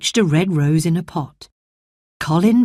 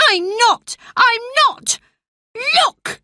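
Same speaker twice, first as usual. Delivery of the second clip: indignant protest. Acted. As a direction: pitch climbing ever higher, boy protesting. Colin protesting.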